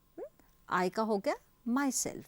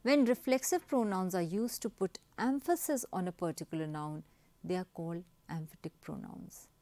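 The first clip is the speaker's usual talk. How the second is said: slow dictation reading; 2 semitones lower, much slower than usual. Shown as a demonstration. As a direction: spell out the rule for copying. (नियम धीरे-धीरे लिखवाना)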